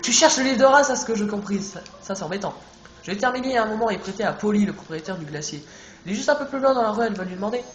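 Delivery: odd shopkeeper voice. Acted. Streamer voicing the bazaar shopkeeper Casey, odd put-on voice. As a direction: greet the player as a strange, loud shopkeeper. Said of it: "Pourquoi je parle comme ça?".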